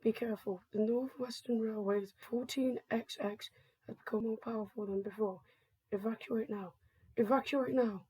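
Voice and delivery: measured, formal evacuation broadcast read; emergency announcement. Acted. Government announcer warning citizens to evacuate the island, formal announcement. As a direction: deliver an official public warning.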